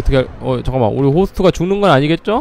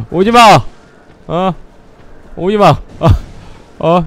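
louder, higher stay-away cry; panicked; 3 semitones higher, 4 dB louder than usual. Real, not acted. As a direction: fend it off in a half-joking panic. Enemy approaching, panicking.

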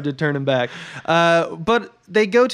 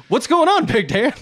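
high-pitched mock bewilderment; imitation of a naive dupe; clueless victim; 9 semitones higher than usual. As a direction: ask it high and baffled, rising at the end. Quotes clueless victim's question.

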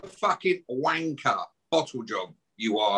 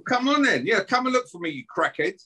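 taunting challenge; 7 semitones higher than usual. Real, not acted. Taunting absent rival to come.

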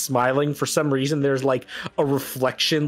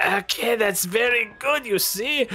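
Philip's praise; 8 semitones higher than usual. Acted. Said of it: "And Philip's like".

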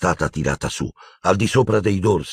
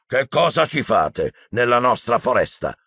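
thundering centaur; 5 semitones higher than usual. Acted. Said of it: "tuonò il centauro grigio".

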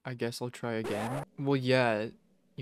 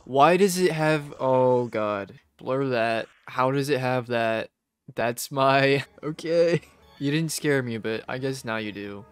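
loud spooked; 7 dB louder than usual. Real, not acted. Spooked by his own computer name.

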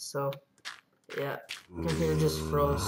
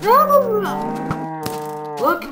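loud, slow, drawn-out cow babble; voicing the cow; 9 dB louder, much slower than usual. Gamer voicing his cow as blah blah blah, slow and loud. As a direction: stretch it out like an excited cow. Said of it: "He's like".

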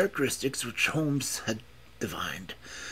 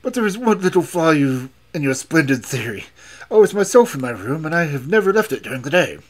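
louder, higher voiced rebuttal; scoffing old professor; 3 semitones higher, 8 dB louder than usual. A narrator's reading. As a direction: protest loudly against the accusation. Old professor scoffs at Holmes's accusation.

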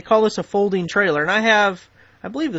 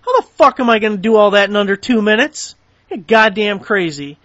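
exasperated rant; 7 dB louder than usual. Real, not acted. Ranting about impossible demands.

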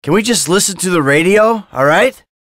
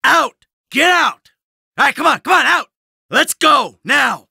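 shouted orders; 6 semitones higher than usual. Acted. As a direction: order them out of the car by force. Hauling a driver out of car.

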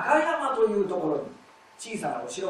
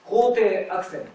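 肯定アクセント punched louder; strong accent; 5 dB louder than usual. Shown as a demonstration. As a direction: hit the first syllable of 肯定アクセント hard. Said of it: "強いでしょ".

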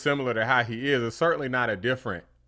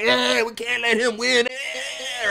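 mock Democrat strategist; 9 semitones higher, slower than usual.

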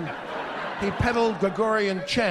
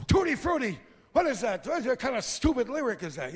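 father; 5 semitones higher than usual. Retold or imitated. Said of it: "unnerved my father".

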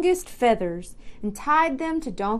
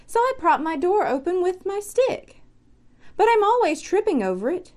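a lightly voiced badger rattling on, quick in places; fussy badger; 4 semitones higher than usual. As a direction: hurry through the badger's grumbles. Badger complains about his door.

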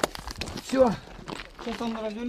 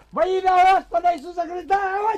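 shouted prayer and command; 5 semitones higher than usual. Real, not acted. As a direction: call it out over the gun. Prayer then firing command. (громкая команда с молитвой)

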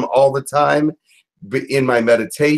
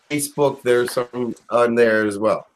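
speaking through hiccups; words broken by hiccups; 2 semitones lower than usual. Real, not acted. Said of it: "Oops, have the hiccups".

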